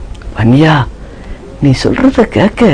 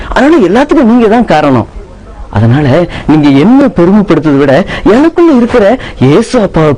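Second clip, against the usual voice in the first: son retelling; 2 semitones higher than usual. Acted. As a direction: tell mother proudly and humbly. Son tells farewell event. (அம்மாவிடம் நடந்ததை சொல்லும் மகன்)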